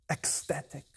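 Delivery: low, very soft answer; hushed reply. Retold or imitated. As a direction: understate it, quiet and low. John's understated reply in acted dialogue.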